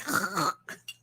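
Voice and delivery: short, soft choking rattle; failed throat purr. Shown as a demonstration. Wife failing to match husband's purr, soft choking rattle. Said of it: "I can't do it and I'm like".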